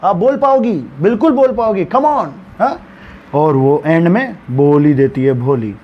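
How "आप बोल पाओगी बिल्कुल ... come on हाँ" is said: encouraging. Retold or imitated. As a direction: gently cheer the shy child on. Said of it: "encourage करती है उसे". (Teacher का हौसला बढ़ाता लहजा)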